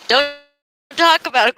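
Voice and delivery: laughing squeal telling chat to stop; laughing yell. Real, not acted. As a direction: yelp it through laughter.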